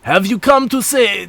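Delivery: attempted French accent, sliding toward Russian; hammy fake French voice; bad French accent. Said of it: "do a really bad French accent".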